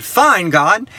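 mildly exasperated surrender; reluctant, mock-resigned concession; retold giving in. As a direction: give in grudgingly, spacing it out. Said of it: "I finally gave up and I said".

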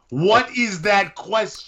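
stretched, baffled what; incredulous high repeat. Real, not acted. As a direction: say it like you can't believe the question.

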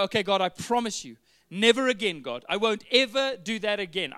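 loud, pleading vow to God; a believer making a loud vow to God; earnest promise. Retold or imitated. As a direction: swear it to God with full conviction.

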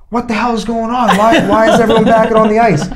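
high pitched indignant mock coach; lightly hammed-up protesting coach; angry opposing coach. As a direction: play the outraged rival coach, voice pushed up high. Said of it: "the coach on the other team's going".

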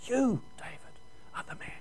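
near-silent, choked words; broken, hushed accusation; tearful. Retold or imitated. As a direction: barely get it out through tears. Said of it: "He could hardly say the words".

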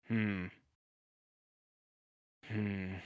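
mock clinical "hmm", with long pauses; pondering hum. Doctor giving a long physical, pondering hums. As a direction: hum as if studying something carefully. Imitates doctor examining the patient.

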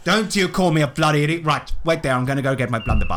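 lightly voiced huffy blusterer; mild outrage, hurrying at the end; indignant Willie Dynamite figure. Willie answering an insult, mildly indignant bluster.

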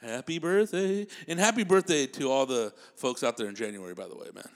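a hint of a famous singer wishing happy birthday. Comic wishing January babies happy birthday as a famous singer. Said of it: "this is my Elvis voice".

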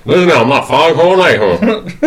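lightly voiced Southern gentleman; a hint of old Southern drawl; Colonel Sanders. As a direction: try on a folksy Kentucky colonel. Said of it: "how does Colonel Sanders?".

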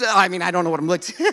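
talking through a laugh; laughing at his own joke. Real, not acted. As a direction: laugh it off mid-sentence.

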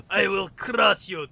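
loud mock barbarian threat. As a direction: growl it like a warlord. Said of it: "I went from".

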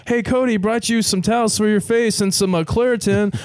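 high, sing-song helpful host; cheery friend. Retold or imitated. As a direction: chirp it up like a friendly host checking in. Friend voiced at the door.

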